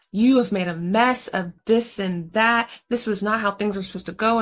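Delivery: mildly stern retold telling-off; mock scolding. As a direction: imitate a pastor chewing out a daughter, lightly. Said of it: "The pastor is going off on Alexis".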